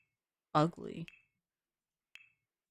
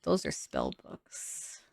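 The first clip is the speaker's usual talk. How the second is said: much lower, slow mock-sinister voice; spooky spell voice; 5 dB quieter, slower than usual. Decorating the witch house, she jokingly dubs old books spell books in a mock-ominous low voice. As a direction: drop into a hammed-up ominous tone. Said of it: "I'm like".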